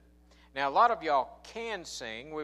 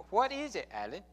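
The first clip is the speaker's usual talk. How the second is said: imitating Dion; 4 semitones higher than usual. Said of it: "I can't do it like C J".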